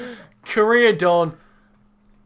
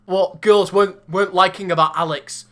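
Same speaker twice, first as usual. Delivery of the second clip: Scottish accent; 2 semitones higher than usual. Shown as a demonstration. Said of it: "Right, Ellie's Scottish".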